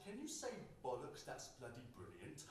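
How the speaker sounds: a hint of an American fan asking him to swear; mock American asking. American fans grinning, asking him to say British words, light accent. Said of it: "Grinning, they'd ask".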